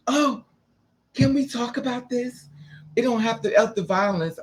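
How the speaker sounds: high, mock sweet pleading. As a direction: imitate her sudden sweet backing down. Girl suddenly backing down.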